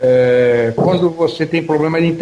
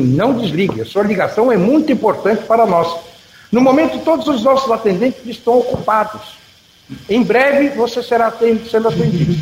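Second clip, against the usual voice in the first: higher, recorded hold message voice; customer service voice; 5 semitones higher than usual. Retold or imitated. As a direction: read it like a phone queue recording. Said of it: "e você assim".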